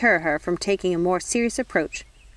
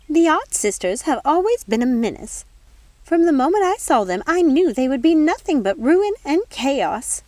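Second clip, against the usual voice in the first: haughty fairy godmother; 8 semitones higher, 5 dB louder than usual. Acted. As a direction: pronounce judgement on the odd sisters. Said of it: "said the fairy godmother".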